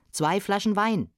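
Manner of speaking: farmer's hearty call. Acted. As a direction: call out an order to the innkeeper. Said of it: "rief der Bauer".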